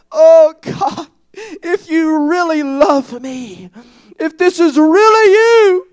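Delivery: pleading through a sob; crying prayer. Retold or imitated. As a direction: voice cracking with tears. Retelling tearful prayer.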